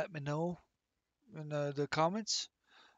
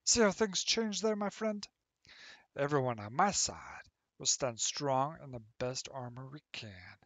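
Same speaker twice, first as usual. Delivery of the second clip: put-on a friendly old hobbit welcoming a friend to sit and listen; Leander voice. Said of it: "So I'm gonna do it in my Leander voice".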